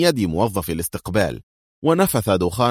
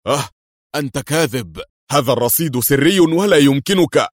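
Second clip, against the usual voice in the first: higher, louder frightened cry; panicked shout; 6 semitones higher, 5 dB louder than usual. A narrator's reading. Hussein panics over his emptied account, shouting. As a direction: blurt it out in panic. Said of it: "وصاح بذعر".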